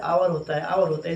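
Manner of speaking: आवर with silent H, opening on the vowel; correct pronunciation demo. Shown as a demonstration. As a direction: start आवर straight on "aa". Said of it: "वो क्या होता है?".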